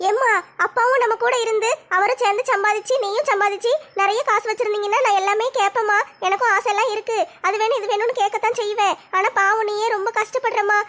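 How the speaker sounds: put-on a young girl gently telling her mother why; a hint of a caring teenage girl; lightly voiced loving daughter. Daughter explains tenderly.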